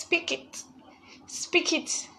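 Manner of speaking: high, hushed, almost unvoiced "speak it"; breathy encouragement. Real, not acted. Host urges a hopeful scholar in chat, hushed encouragement. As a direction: urge her to claim it under your breath. Urging viewer to claim it.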